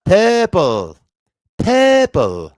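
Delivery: high, loud Scottish "purple"; Scottish accent. Shown as a demonstration. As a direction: belt out purple like a Scot. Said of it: "good imitations of certain accents".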